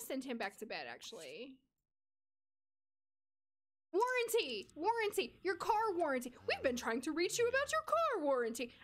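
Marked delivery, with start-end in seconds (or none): 3.9-8.7 robocaller voice. Retold or imitated. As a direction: call it out like a pushy robocaller. Imitating robocall about warranty.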